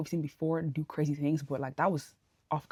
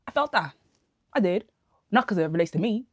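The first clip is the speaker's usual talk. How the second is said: excited; 3 semitones higher, 6 dB louder than usual. Real, not acted. Excited reaction to quote.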